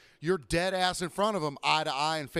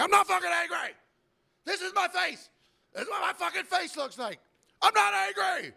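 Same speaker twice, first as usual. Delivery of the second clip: very high, strained comic yelling; hammed-up angry shout; 4 dB louder than usual. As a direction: explode in exaggerated protest. Comic angry retort to customers.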